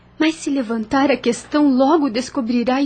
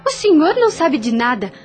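defiant, offended outburst; indignant retort; 5 semitones higher than usual. Acted. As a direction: throw the accusation back at him hotly. Maria confronts overseer Lázaro.

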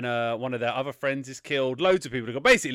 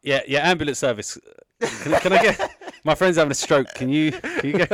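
laughing mock emergency call; 3 semitones higher, 7 dB louder than usual. Host fake-calling an ambulance for his dithering friend, laughing. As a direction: pretend emergency call dissolving into giggles.

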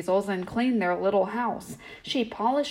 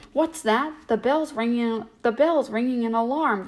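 alarmed cry; 3 semitones higher than usual. Acted. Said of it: "cried the weasels".

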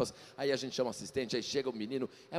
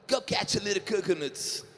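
slow careful English; 7 semitones higher, slower than usual. Shown as a demonstration. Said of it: "o quê?".

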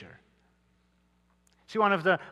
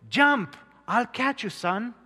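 a father's urgent yell, higher and louder; 7 semitones higher, 4 dB louder than usual. Acted. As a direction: shout up to the roof, urging. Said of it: "his father kept yelling".

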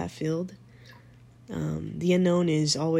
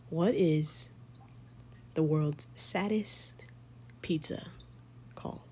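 slow teasing joke setup; telling a dad joke; 4 dB quieter, slower than usual. Real, not acted. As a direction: drag out the setup of a corny joke. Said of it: "I'm gonna tell you a dad joke right now".

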